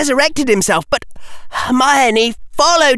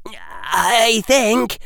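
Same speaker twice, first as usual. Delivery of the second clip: hoarse. Acted. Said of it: "said hoarsely".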